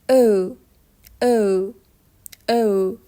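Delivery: "او" said as a long German ö; German o-umlaut. Shown as a demonstration. Teacher models o-umlaut for learners, "او" as long ö. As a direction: say "او" as ö, an e with rounded lips.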